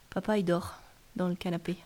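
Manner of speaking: hushed whisper. Acted. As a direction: whisper so you don't wake papa. Dad asleep, child whispers.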